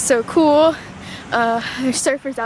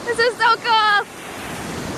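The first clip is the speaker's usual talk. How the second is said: high, very slow gushing; drawn-out delight; 9 semitones higher, much slower than usual. Real, not acted. Marvelling at the pier, slow and high. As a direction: stretch it out in awe.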